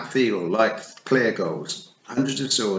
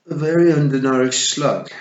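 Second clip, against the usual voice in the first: toad voice; 6 semitones higher, 10 dB louder than usual. A narrator's reading. Toad answers, voiced character.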